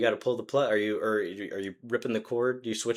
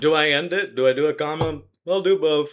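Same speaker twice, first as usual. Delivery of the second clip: a louder, fussy inner voice; flustered writer; 4 semitones higher, 7 dB louder than usual. Retold or imitated. Acting out a dithering writer at the keyboard, fussy and loud. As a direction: play the writer who can't decide, fretting aloud.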